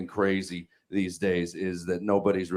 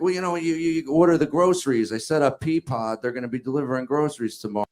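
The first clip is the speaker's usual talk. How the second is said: mimicking wife; 5 semitones higher, faster than usual. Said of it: "She's like".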